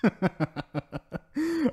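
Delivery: high, giggly villain laugh; giddy laugh. Acted. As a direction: laugh high as if the lie is a joke. Villain admits lying, laughs.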